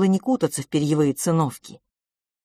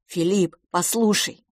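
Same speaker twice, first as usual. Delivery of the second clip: higher and louder, near tears; desperate pleading boy; 5 semitones higher, 7 dB louder than usual. Acted. Boy begs his silent twin brother, pleading desperately. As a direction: beg him to answer you.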